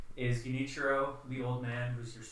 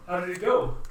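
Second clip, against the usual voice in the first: admiral asking; 8 semitones higher, 13 dB louder than usual. Acted. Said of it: "The admiral looks at you and says".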